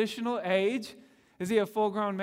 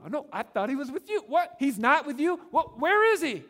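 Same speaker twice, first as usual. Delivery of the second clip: rising panic, each question higher; panicked parents; 8 semitones higher, 6 dB louder than usual. Retold or imitated. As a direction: voice climbing high and loud in alarm. Parents realize the boy is missing.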